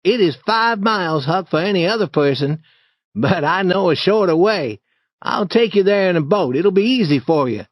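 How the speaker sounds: a hint of a confident boy; Tom.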